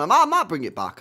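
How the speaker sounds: loud chuckling line; laughing. Real, not acted. Streamer teasing a comeback, laughing. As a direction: laugh through it. Laughing about bringing back.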